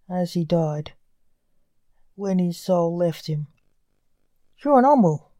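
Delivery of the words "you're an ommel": higher, louder note of disgust; narrated disgust, pitched up and pushed out. A narrator's reading. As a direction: say it with audible disgust.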